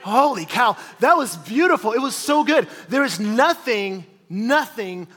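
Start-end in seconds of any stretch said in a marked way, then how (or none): 0.0-2.7 delighted. Retold or imitated. Boy recalls cold Coke, laughing with delight. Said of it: "And I'm like".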